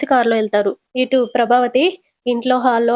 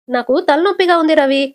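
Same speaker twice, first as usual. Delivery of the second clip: higher-pitched, mildly fed-up grumble; irritated; 4 semitones higher than usual. Acted. Shruti tells Ravi of her headache and leaves, irritated. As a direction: brush them off with mild irritation. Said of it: "అని విసుక్కుంటూ వెళ్ళిపోతది".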